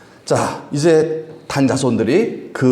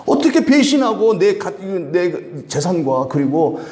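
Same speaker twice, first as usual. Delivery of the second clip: indignant protest; 5 semitones higher than usual. Retold or imitated. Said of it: "하면서 막 따진 거예요".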